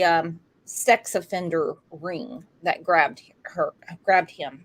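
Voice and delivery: holding back tears, choked; choking up. Real, not acted. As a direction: voice catching with emotion. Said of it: "Sorry, I'm choking up".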